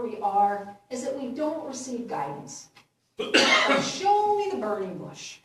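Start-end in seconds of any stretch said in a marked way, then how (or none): 3.2-5.4 louder, higher mock insistence; mock stubborn demand. Speaker mimicking someone refusing to move without a sign, mock stubborn. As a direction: hold out stubbornly, in jest.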